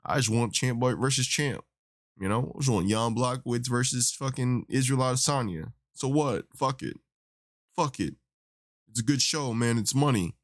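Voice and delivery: lightly put-on dopey voice; Dana White. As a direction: do a bad, dim-witted mock impersonation. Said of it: "I can't do a really good Dana White impersonation".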